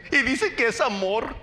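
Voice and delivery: high, put-on whiny voice with a giggle; mocking a fragile churchgoer; mock whiny offended Christian. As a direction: play the touchy believer, prissy and hurt. Preacher mocks a sugar-made Christian.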